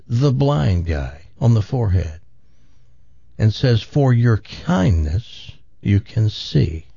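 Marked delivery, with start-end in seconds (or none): 3.8-6.8 solemn Jesus. Acted. Jesus heals the blind man.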